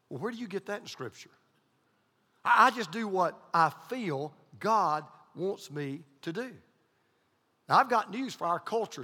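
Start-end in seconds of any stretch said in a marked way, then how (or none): 2.4-6.5 mock churchgoer. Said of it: "makes my skin crawl".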